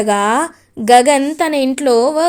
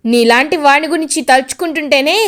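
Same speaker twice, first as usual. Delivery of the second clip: angry scolding; 4 semitones higher than usual. Acted. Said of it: "ఇంకా గట్టిగా చెప్తాడు".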